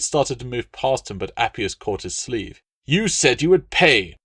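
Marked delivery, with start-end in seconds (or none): 2.8-4.2 high, loud pleading accusation; desperate demand. Acted. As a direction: clutch his sleeve and insist. Appius grabs his sleeve.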